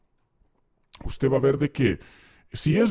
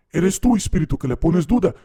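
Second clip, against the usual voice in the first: higher, louder demanding questions; pastor interrogating demon; 5 semitones higher, 5 dB louder than usual. Retold or imitated. Pastor questioning the possessed person's demon, higher and louder. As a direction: grill the spirit like a preacher on stage.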